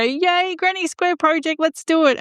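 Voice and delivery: high-pitched, gleeful self-imitation; mock enthusiasm. Crocheter mimicking herself starting a new granny square project, mock excited. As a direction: play up your naive eagerness, pitched well up. Acting out her own naive enthusiasm.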